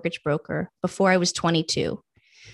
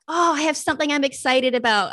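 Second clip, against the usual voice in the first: retold happy excitement, pitched higher; 6 semitones higher than usual. Telling how she went home with a new plan, happy. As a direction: re-enact a glad, high-pitched discovery. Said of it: "I was so happy".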